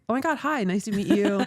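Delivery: gushy first-meeting greeting, lightly imitated; put-on meeting-people voice. Shown as a demonstration. Speaker mimics self meeting someone new, put-on social voice. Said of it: "my voice always kinda comes out like this".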